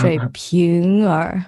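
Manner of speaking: 水瓶儿 very slow with a curled 儿; 水瓶儿 dragged out, tongue curled on 瓶儿; Beijing erhua. Shown as a demonstration.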